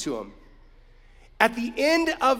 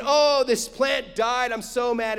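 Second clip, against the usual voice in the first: lightly acted grumbling; complaining; 2 semitones higher than usual. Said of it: "Jonah's complaining about that".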